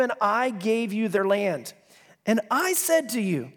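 "I" leaned on each time it comes; scripture read with a stressed, stretched "I"; emphasis on I. Shown as a demonstration. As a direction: punch every "I" as you read. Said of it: "I'm gonna emphasize the word "I".

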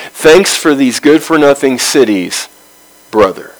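dry, sarcastic thanks. Retold or imitated. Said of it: "Hiram sarcastically then calls Solomon brother".

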